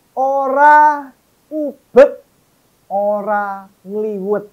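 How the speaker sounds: loud slow Javanese proverb; proclaimed proverb. Shown as a demonstration. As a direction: boom the proverb out. Proverb continuation shouted out.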